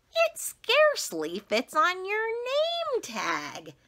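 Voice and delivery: very high, slow mocking voice; snooty tease. Rita pointing at the name tag, high mocking tease. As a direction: sneer at her like a bratty kid. Classmate teasing her name.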